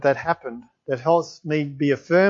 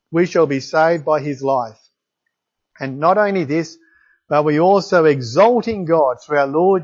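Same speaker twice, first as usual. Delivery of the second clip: scripture reading. Acted. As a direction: read it out like holy words to the congregation. Reads Romans passage aloud.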